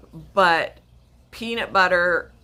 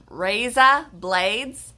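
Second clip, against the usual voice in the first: slow, attempted Aussie "razor blades"; Australian-type accent; 3 semitones higher, 3 dB louder, much slower than usual. Shown as a demonstration. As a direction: try "razor" as "raza", Australian-style. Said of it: "like an Australian type accent".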